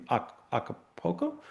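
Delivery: acapulco said quietly and hesitantly, as if guessing at a cappella; a fumbled acapulco for a cappella, muttered; unsure pronunciation. Real, not acted. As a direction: trail off on acapulco, unsure of the word. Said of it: "I don't know how to say the right way".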